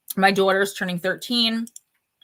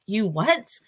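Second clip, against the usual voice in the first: rising, baffled you what; incredulous; 2 semitones higher, much slower than usual. Retold or imitated. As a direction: play the stunned listener. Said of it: "they're like".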